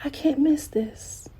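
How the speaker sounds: breathless whisper, barely there. Shown as a demonstration. Speaker whispering her promise to herself, hushed. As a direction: hush it like a secret.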